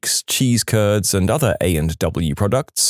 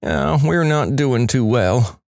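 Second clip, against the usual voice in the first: slow, sad country accent retold; a downcast customer in a country accent; sad country drawl; 3 semitones higher, slower than usual. Customer at the drive-thru, sad and slow in a country accent. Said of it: "in a country accent, responded sadly".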